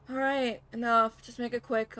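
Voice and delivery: loud, curt and fed up; a loud, impatient order to wrap it up; impatient snap. Acted. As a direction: cut him off sharply. Character snaps to end the talk.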